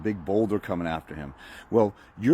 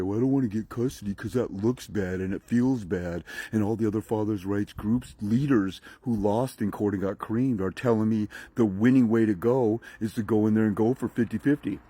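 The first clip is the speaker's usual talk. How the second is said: timid excuse. Retold or imitated. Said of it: "go in there and say".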